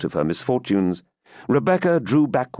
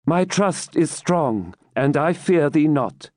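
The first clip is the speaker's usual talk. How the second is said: slow, higher, steadfast declaration; heroic resolve; 6 semitones higher, slower than usual. A narrator's reading. Rebecca refusing to fear the knight, heroic resolve. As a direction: stand your ground in a raised, measured voice. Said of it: "the heroism of her accents".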